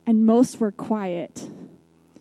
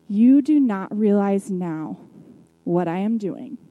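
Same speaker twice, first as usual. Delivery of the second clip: gently but firmly. Retold or imitated. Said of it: "Jesus gently but firmly speaks".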